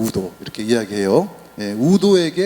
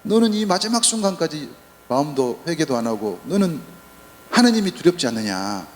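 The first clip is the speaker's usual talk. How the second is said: scolding rebuke. Retold or imitated. Good thief scolding the mocking thief, firm rebuke. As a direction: snap at a fellow convict to shut up. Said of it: "좌도에게 야단을 칩니다".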